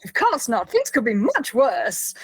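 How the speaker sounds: brightly put-on cheer, slowing at the end; cheerful bolstering. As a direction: bolster yourself with mock good cheer. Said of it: "very cheerfully bolstering".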